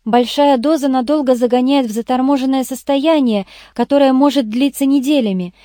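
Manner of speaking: lightly voiced eager explainer; lightly voiced Irene. Irene reports her finds to the boss, lightly feminine.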